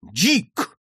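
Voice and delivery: high, loud outburst of a name; father's startled call; involuntary cry. Acted. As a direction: let the name burst out. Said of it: "вырвалось у его отца".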